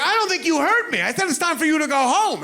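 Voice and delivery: mock tough warning. Tough guy warning drunk.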